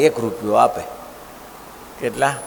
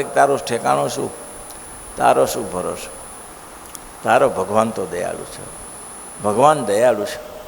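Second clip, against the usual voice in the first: lower, steady reassuring voice; calm lower reply; 5 semitones lower, 4 dB quieter than usual. Acted. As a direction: answer him gently from above. Maharaj answers the man calmly. (નીચા, શાંત અવાજે દિલાસો)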